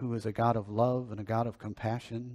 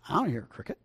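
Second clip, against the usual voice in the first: higher-pitched, baffled reply as the businessman; puzzled denial; 6 semitones higher, faster than usual. Acted. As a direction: deny it, mildly bewildered and high. Puzzled businessman voiced in story.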